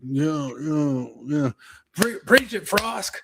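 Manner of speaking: high, eager cheering of a fan; mock eager fan. Listener egging on the podcaster, mock high cheering. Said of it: "listens to this going".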